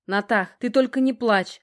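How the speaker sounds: gently coaxing request; tender plea. A narrator's reading. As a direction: soothe her with mild urgency. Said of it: "ласково попросил он".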